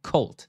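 "Cult" as one crisp syllable, like "kolt"; model pronunciation. Shown as a demonstration. Teacher asking students to pronounce C U L T, "Cult" modelled as "kolt". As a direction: say "Cult" clearly for learners to copy. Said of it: "ออกเสียงได้ไหมเอ่ย C U L T".

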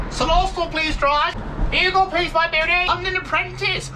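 put-on very high squeaky Cornish accent; high-pitched Cornish voice. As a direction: pitch it right up, broad Cornish. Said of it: "a high-pitched Cornish voice".

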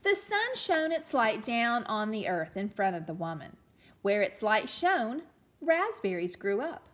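put-on storytelling read-aloud for children; gentle read-aloud storyteller; story narration. A narrator's reading. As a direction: read it like a picture book to a class.

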